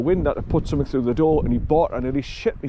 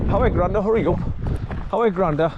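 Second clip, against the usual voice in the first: dog's thoughts voiced; 4 semitones higher than usual. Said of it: "you're thinking".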